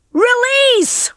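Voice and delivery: high, loud launch command; shouted order. A narrator's reading. Rocky orders the chickens to launch, shouting. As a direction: give the order to let go. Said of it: "Rocky ordered the chickens".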